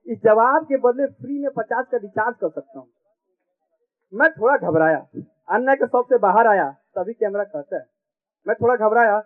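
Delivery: comic verse recited with each line repeated; sing-song stage reading for a laughing crowd; poem recitation. Acted. Poet reciting a comic poem to the audience, rhythmic stage recitation.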